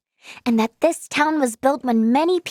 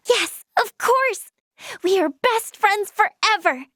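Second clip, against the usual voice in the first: joyful pledge; 5 semitones higher than usual. Acted. Pledging friendship to friend.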